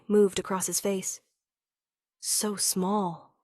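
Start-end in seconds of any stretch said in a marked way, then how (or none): 2.2-3.3 reverent murmur. Acted. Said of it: "he murmured, reverent".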